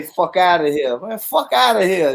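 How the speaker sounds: mock an incredulous, loud send-off; playful New Yorker dismissal; imitated brush-off. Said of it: "They say".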